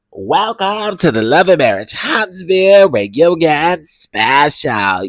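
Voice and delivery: lightly hammed-up host announcement; imitating the host. Imitating the reunion host's opening for her audience, hammy host voice. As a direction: draw out yes honey yes like the show host. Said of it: "It's the way he said it".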